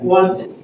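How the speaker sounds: "Wanted" with a full final "id"; two syllables. Shown as a demonstration. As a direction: count out "Wanted" as won-tid. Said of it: "two syllables".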